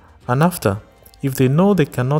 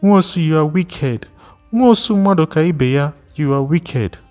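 shrill accusation; 7 semitones higher than usual. Acted. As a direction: hurl the name at him, rising in outrage. Repeated accusation climbs higher.

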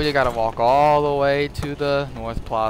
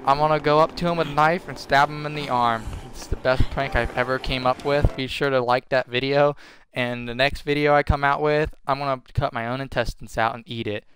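mock prank youtuber. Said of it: "make another Dead Rising video".

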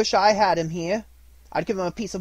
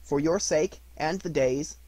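grudging toast; 3 semitones higher, 5 dB louder than usual. Acted. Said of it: "said Missus Cratchit".

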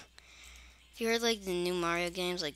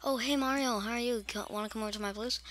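friendly inviter; 2 semitones higher, faster than usual. Pretend. Someone invites Mario over to their place, lightly put-on friendly voice.

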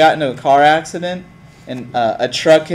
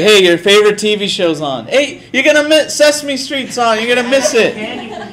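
put-on calling out to a kid; 5 semitones higher than usual. Calling little brother back from street.

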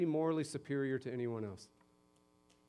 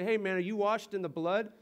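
a hint of an overeager street preacher; mock-cheery canned evangelist line; hokey churchy greeting; 6 semitones higher, 4 dB louder than usual. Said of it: "don't go to church and say".

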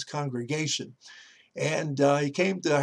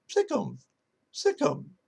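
parrot voice; 5 semitones higher than usual. Acted. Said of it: "the parrot said".

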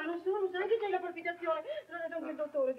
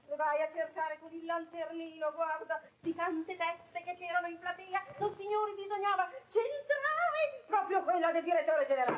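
tearful lament. Acted. Wife wails over the disaster.

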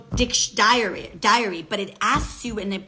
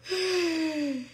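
higher, soft trailing laugh; real laugh; 5 semitones higher, 6 dB quieter than usual. Real, not acted. Laughing at her own bad mood, soft helpless laugh.

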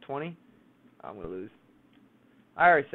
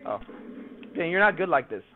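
ordinary talk, nothing marked

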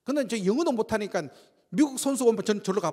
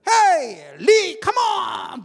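loud, high, slow call; 10 semitones higher, 10 dB louder, much slower than usual. Retold or imitated. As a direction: shout across the field to him. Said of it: "불러요". (크게 높이 부르는 소리)

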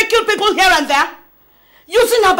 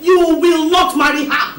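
stern shout; slower than usual. Acted. Mother forbids marriage, shouting.

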